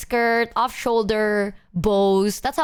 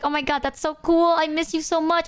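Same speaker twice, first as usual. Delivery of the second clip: gushing friend voice; 6 semitones higher than usual. Retold or imitated. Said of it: "she's like".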